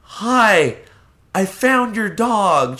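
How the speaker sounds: high, slow, overly sweet; a faux-innocent finder's sing-song. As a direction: play it innocent, lifting every word high. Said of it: "And I said".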